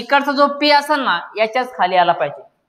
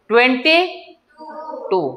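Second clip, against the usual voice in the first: drawn-out prompt. Shown as a demonstration. Teacher coaxing the class to answer, slow drawn-out. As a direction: slowly spell out "ट्वेंटी" then pause before "टू". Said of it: "किती येणार?".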